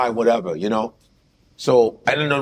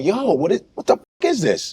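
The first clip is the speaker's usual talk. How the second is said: higher-pitched retold protest; indignant challenge; 5 semitones higher than usual. Man retelling how he confronts a date, indignant. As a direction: call out the nonsense in disbelief.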